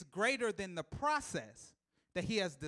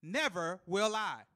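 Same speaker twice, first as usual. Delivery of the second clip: very slow, higher and louder; slow loud reversal; 4 semitones higher, 10 dB louder, slower than usual. Shown as a demonstration. Preacher flipping the verse, slow and loud. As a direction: belt it backwards slowly. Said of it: "Flip it".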